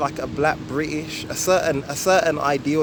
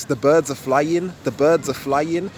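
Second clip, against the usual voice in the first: "The birds" long, "are flying" short with a rise; roadman quicker ending; slower than usual. Shown as a demonstration. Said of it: "So it'd be like this".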